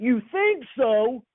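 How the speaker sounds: high, full-throated yell at the top of the lungs. Retelling how a coach yelled at his quarterback: imitating Coach Bryant yelling at the top of his lungs. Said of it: "Coach Bryant yells out at the top of his lungs".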